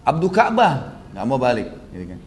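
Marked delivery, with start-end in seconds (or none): 0.1-1.0 raised calling voice. Retold or imitated. Umayyah keeps calling Abdurrahman, who won't turn, calling out. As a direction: call the name to get his attention. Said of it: "Dipanggil terus gitu".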